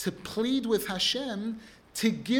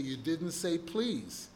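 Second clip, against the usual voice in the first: a patient parent, unbothered; calm patient parent; 2 semitones lower, slower than usual. Retold or imitated. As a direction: gently remind the kid of his manners. Parent gently correcting the child.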